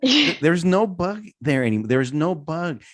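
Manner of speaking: high imitation of a child crying in protest; mock crying. Father imitates his crying son about the bug, high mock wail. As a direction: plead and wail like an upset little kid. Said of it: "he's crying".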